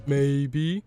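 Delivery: drawn-out, rising, unsure answer; hesitant maybe. Acted. Shinji answers whether he'll pilot the mech, hesitant. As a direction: stretch it out and let it lift, noncommittal.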